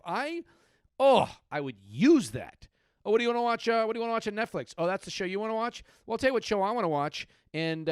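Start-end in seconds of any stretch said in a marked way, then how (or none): 3.0-7.9 smug husband. Acted. Acted husband argues over TV show.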